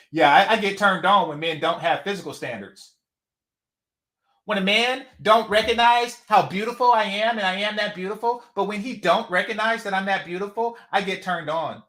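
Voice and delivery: hammed-up Jamaican accent; mock her in a put-on Jamaican accent; fake Jamaican accent. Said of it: "that fake Jamaican accent".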